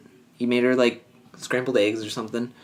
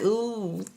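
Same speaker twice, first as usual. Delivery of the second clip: high, soft "ooh" imitating giddiness; giggly ooh; 10 semitones higher, 6 dB quieter than usual. Friend recapping a couple getting cozy, mock giggly ooh. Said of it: "giggly and stuff".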